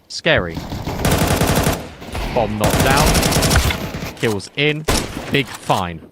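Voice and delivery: lightly robotic esports commentary; flat, clipped AI casting; robotic AI caster. Pretend. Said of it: "it would talk like this for the whole time".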